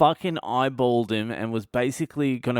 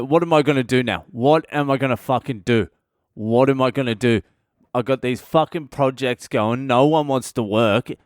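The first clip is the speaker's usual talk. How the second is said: ranting; 4 dB louder than usual. Retold or imitated. Angry bloke ranting at escalator.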